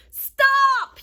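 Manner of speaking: high, loud desperate shout; Big Anthony shouting at the pasta; yell. A narrator's reading. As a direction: yell at the pot to stop. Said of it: "yelled Big Anthony".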